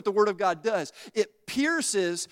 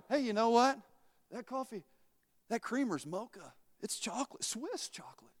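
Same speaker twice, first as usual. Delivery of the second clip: softer and softer, ending in a whisper; tempting whisper; 7 dB quieter than usual. Acted. The devil tempting the preacher with creamer, whispering. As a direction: lure them in like a tempter.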